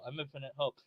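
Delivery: very soft small voice; barely-there squeak of a toy; tiny toy voice. Pretend. Toy begging to join the video, tiny soft voice.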